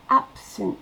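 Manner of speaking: "absent" joined to the word before; linked absent. Shown as a demonstration. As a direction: run into "absent" without a break. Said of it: "on fait la liaison avec". ("absent" en liaison)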